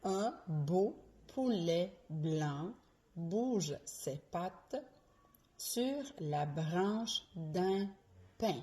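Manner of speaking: tongue twister said slowly, every B and P crisp; "Un beau poulet blanc" with popped P and voiced B, slow; virelangue lente. Shown as a demonstration. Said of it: "Je répète". (virelangue articulée lentement, B et P bien distincts)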